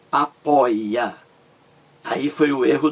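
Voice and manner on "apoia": syllable by syllable. Shown as a demonstration. Teacher breaks down misaccented verb.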